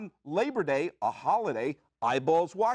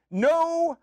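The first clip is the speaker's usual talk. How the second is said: slow, loud proclamation; spaced-out commanding decree; decree shout; 5 semitones higher, 4 dB louder, much slower than usual. Acted. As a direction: bellow it as an official decree. Decree as commissioner.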